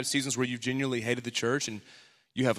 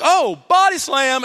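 loud, higher, slow mock bravado; mock tough guy; 10 semitones higher, 10 dB louder, slower than usual. Dad imagining body-slamming the ten-year-old, loud. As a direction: shout it like a playground wrestler. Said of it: "I'm like".

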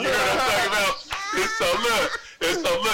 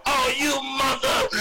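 higher, drawn-out imitated curse; mock cussing out; 4 semitones higher, slower than usual. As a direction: imitate someone starting to cuss you out. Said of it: "dude starts cussing me out".

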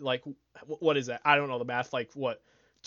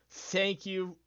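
ordinary talk

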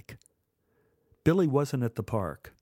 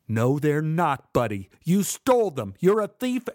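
angry accusing; 3 semitones higher, 3 dB louder than usual. Acted. Kid arguing through door.

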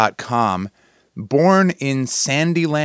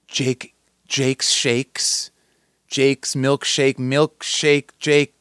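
a slow, drawn-out pretend goal call; mock goal call; much slower than usual. Host inventing a goal call, slow mock announcer. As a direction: stretch it like an announcer trying a new call. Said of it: "create a goal call for Jake".

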